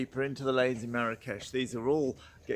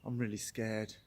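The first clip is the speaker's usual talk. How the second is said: mock scared guide; 5 semitones lower, 9 dB quieter than usual. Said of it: "our guide turned round and went".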